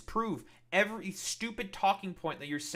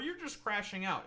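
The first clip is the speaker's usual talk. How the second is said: mocking accusers; 3 semitones higher, 5 dB quieter than usual. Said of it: "deflect to saying".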